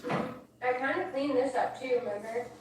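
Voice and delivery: talking with a mouth full of food; chewing while chatting. Real, not acted. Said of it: "I'll quit talking with my mouth full".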